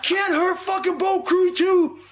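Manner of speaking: high, slow retold battle cry; retold yell. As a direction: belt out the chant the way the crew did. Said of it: "We start yelling".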